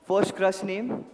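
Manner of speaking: repeated slowly and clearly after he missed it; said slowly so the guest can catch the question. Shown as a demonstration. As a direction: spell it out slowly for someone who didn't hear. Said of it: "Whose name?".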